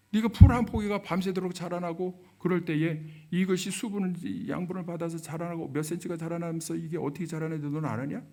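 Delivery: 책망. Retold or imitated. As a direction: fire off challenging questions in reproof. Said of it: "어마어마하게 책망하십니다". (몰아세우듯 높여 책망하는 말투)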